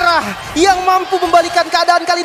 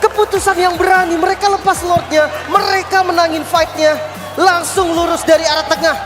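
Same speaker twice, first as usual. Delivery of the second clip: screaming comeback call; 10 semitones higher, 6 dB louder than usual. Real, not acted. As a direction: belt it out like a grand final. Caster calls the epic comeback.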